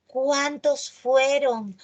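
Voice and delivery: slow question, "Cuántos" stressed; emphatic question. Shown as a demonstration. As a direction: stretch "¿Cuántos fueron?" out slowly, leaning on "Cuántos". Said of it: "Se pronuncian con énfasis". (pregunta lenta con énfasis en "Cuántos")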